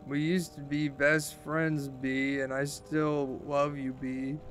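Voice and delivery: put-on slow, soft drunken mumble; slurred. Drunk girl telling her old best friend she loves her, slurred. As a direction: run the words together drowsily. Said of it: "I didn't get a word of that".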